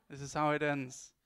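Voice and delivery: "how" punched loud and falling; dramatic loud reveal. Shown as a demonstration. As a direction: boom out "how" like a grand finale. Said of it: "dramatic ending restart".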